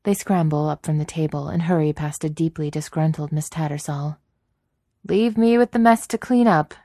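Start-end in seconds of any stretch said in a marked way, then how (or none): 5.1-6.7 grumbling. A narrator's reading. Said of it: "she grumbles".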